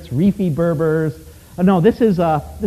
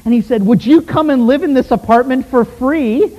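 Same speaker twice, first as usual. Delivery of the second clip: a Moroccan man begging to learn more, excited; eager request; 5 semitones higher than usual. Retold or imitated. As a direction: play the man hungry to hear more.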